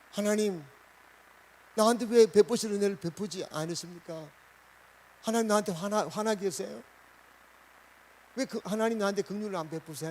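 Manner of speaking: mock protest in prayer; frank prayer. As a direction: act out an honest, questioning plea. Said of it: "힘든 마음을 솔직하게 다 얘기해요".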